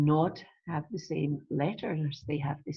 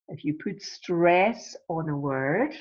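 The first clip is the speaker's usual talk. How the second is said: "stress" leaned on and drawn out. Shown as a demonstration. Teacher shows how to highlight a word, stressing "stress". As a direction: put the weight on the word "stress". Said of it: "like I have just done".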